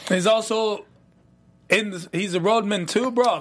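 reviews the plot in a hammed-up London roadman accent; put-on London roadman accent. Cohost recaps the plot in a put-on London roadman accent. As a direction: keep up the London roadman slang. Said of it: "this accent you're giving me".

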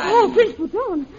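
a sudden, slow gasp of alarm; startled gasp. Acted. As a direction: caught in the act, she gasps his name. Caught at the prisoner's window.

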